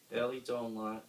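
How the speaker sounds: usual speaking voice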